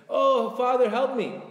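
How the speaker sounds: loud, high cry for help; imitated screamed prayer. Worshipper in Uman screaming to Father in heaven, screamed plea. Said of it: "a person screaming".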